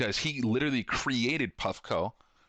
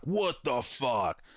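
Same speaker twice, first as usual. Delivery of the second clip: slow disbelief; 2 semitones higher, much slower than usual. Retold or imitated. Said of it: "And so I'm like".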